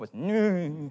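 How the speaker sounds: put-on French accent. Showing how French speakers say the word: nasal French "no". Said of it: "they have that nasally no".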